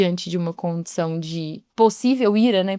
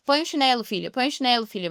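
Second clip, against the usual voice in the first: mild, patient mother asking nicely; calm request; 3 semitones higher than usual. Retold or imitated. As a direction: gently tell your daughter to put her slippers on. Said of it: "Mas aí quando tá mais". (pedido calmo de mãe)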